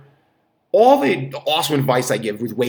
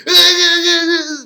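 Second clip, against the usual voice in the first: high crying wail of pain; 8 dB louder than usual. Retold or imitated. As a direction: cry out as if the stomach cramps. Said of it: "And she's like".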